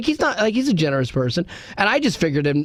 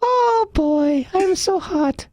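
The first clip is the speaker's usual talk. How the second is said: put-on much higher little kid voice with an international accent; squeaky child impression with a foreign lilt; kid in Ethiopia; 13 semitones higher, much slower than usual. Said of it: "What about a kid in Ethiopia?".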